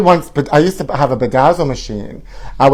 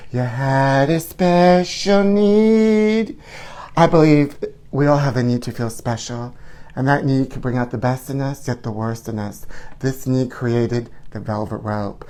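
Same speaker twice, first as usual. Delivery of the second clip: 1 imitating a singer's album interlude; 5 dB quieter than usual. Recites a singer's album interlude.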